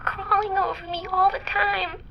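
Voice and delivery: creeping horror rising in the voice; frightened. Acted. Rising panic describing bees.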